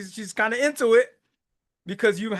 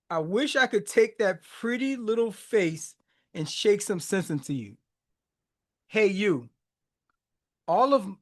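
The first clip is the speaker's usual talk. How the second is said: reciting lyrics. Acted. Recites song lyrics aloud.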